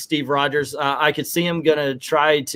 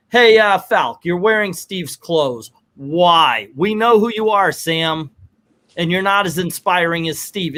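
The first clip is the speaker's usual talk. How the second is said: mock scolding; 3 semitones higher than usual. Friends telling Sam he is no Steve, pointed scolding. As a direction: confront him like a blunt old friend. Mock confrontation of Falcon as Cap.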